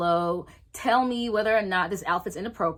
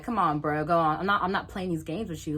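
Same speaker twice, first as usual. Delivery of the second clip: laughing it off; 2 semitones lower than usual. Retold or imitated. Laughing off boyfriend's apparent joke.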